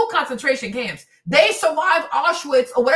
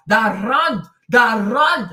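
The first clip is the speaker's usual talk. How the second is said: lower, harder Afrikaans R on Rand; Afrikaans accent; 5 semitones lower, 5 dB louder, much slower than usual. Shown as a demonstration. Explaining the Afrikaans tongue to co-hosts, lower Afrikaans accent. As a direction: roll the R in Rand like an Afrikaans speaker. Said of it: "it's molded for that R".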